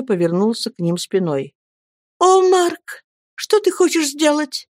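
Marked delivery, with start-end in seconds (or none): 2.2-4.7 alarmed exclamation. Acted. Girl calls out to her departing lover, alarmed. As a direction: call after him in alarm. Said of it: "воскликнула Мириам".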